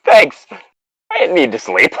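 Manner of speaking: high, loud put-on ghost whine; mock ghost voice. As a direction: play the grumpy drowned ghost. Ghost's sarcastic voice, joke quote.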